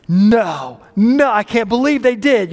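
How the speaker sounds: mock outraged protest, rising in pitch; indignant disbelief. Driver cut off in the turn lane, indignant disbelief. Acted reaction to being cut off.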